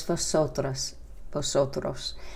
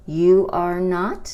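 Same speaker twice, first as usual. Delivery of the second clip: "You are not" louder and slower; louder model; 2 semitones higher, 6 dB louder, slower than usual. Shown as a demonstration. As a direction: stress the full form clearly. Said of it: "You're not".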